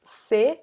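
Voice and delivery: "Você" cut down to just "cê"; shortened form. Shown as a demonstration. Teacher reminding learners, "Você" shortened to "cê". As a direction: drop the first syllable of "Você", leaving "cê". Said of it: "instead of você".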